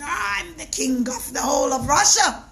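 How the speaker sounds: loud, proud proclamation; boastful royal shout. Acted. Tsar boasts he rules Russia.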